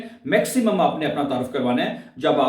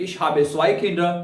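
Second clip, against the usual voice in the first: slow model sentence, zwei leaned on; slow demo; much slower than usual. Shown as a demonstration. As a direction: say each word slowly for the class. (धीमा नमूना वाक्य)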